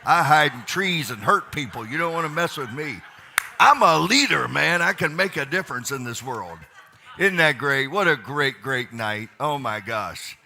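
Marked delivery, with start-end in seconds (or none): 0.0-9.3 louder, jokey bravado; rally the room with a laugh; loud hype. Real, not acted. Leader joking to the crowd, loud playful bravado.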